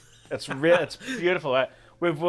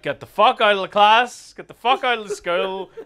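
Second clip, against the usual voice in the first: high, raised-voice telling-off; mock outrage; 6 semitones higher, 6 dB louder than usual. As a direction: imitate a furious order to leave. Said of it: "And they're like".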